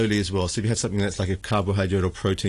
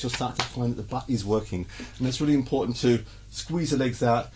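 talking while holding a squat; in a deep squat. Real, not acted. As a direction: speak mid-squat, under strain. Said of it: "I'm squatting down".

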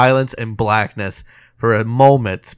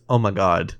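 low, soft mock dismay; hushed shock; 5 semitones lower, 6 dB quieter than usual. Retelling Brenner as the music stops, hushed shock. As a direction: quote it under the breath, lower.

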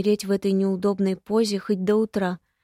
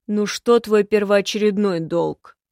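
stern king; 6 dB louder than usual. Acted. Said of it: "Голос Александра".

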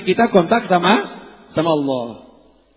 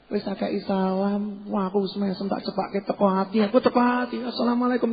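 muttered grumble; 4 semitones higher, 6 dB quieter than usual. Retold or imitated. Grumbling inner voice acted. (menggerutu pelan dalam hati)

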